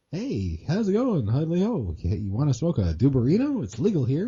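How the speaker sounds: lilting, lightly voiced Canadian neighbour; Canadian Flanders. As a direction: swing the pitch in a friendly mock Canadian. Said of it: "his Canadian self. He's like".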